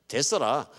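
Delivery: Jeolla accent punchline; comic Jeolla lilt; Jeolla dialect. Shown as a demonstration. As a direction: say it like a Jeolla local. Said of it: "전라도 말로".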